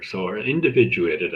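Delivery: "individuated" picked out with emphasis; "individuated" stressed as the key word. Shown as a demonstration. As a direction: lean on "individuated" to single it out. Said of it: "I emphasize".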